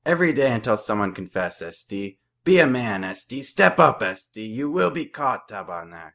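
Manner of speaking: put-on loud, high, building French-accented yells; coach yelling. A narrator's reading. Coach pressuring the team to confess, rising French-accented yell. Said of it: "yells at the top of his lungs in a thick French accent".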